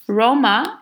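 Roma said slowly; Turkish name. Shown as a demonstration. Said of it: "For example".

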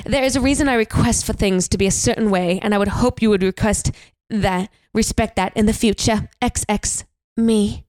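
mild attempt at a British accent. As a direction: read the note formally in an amateur British accent. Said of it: "it's rude to do a British accent".

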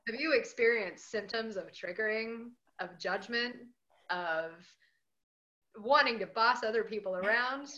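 mock pharmaceutical ad pitch; hammed-up TV ad announcer; drug commercial voice. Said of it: "This is sounding like a, a drug commercial".

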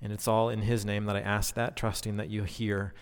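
prayer. Acted. Prayer to close opening.

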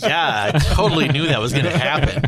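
talking through laughter; laughing. Real, not acted. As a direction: let the laugh run through the words. Player joking through laughter.

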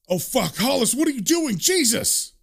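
high-pitched panicked protest; acted panic. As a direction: cry out in mock alarm, pitch climbing. Man panics as giant approaches him.

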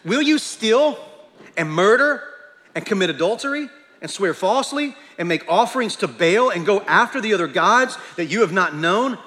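loud, rising indignant reading; God's challenge read out. Acted. Preacher reading God's accusation to the church, loud and indignant. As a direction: read it like God confronting his people. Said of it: "He says, now verse nine".

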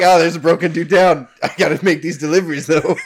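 lightly voiced truck driver; a hint of a trucker on his rounds; semi driver voice. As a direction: play a hurried delivery driver, lightly. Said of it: "my semi driver voice".

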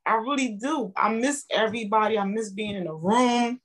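fighting back tears while saying she misses everyone; emotional. Real, not acted. Member telling hosts she misses her TLC family, emotional. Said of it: "I'm sorry I'm getting emotional".

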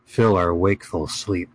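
dramatic fantasy chronicle reading; story narration. Acted. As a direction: read it like an epic saga. Reads a fantasy chronicle aloud.

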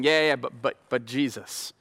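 gentle lawyer pleading for a friend; calm defending advocate. Acted. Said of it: "our advocate keeps saying".

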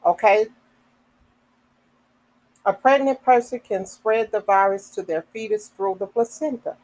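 measured read-aloud of a health notice; reading information aloud. Real, not acted. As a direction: read it out sentence by sentence, with pauses between.

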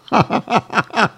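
short high laugh of disbelief; incredulous laugh. Real, not acted. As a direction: burst out laughing at the joke. Laughs at absurd headline.

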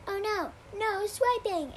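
high, loud, slow group shout; calling out loudly. A narrator's reading. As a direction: call it out together to stop him. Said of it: "everyone called out loudly".

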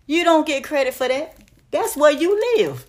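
scolding shout. Real, not acted. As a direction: call them out hard. Scolding men about credit.

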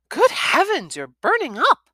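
high, loud shocked mother; mother feels hot forehead, high and loud; alarmed mum. A narrator's reading. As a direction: cry out as worried mum.

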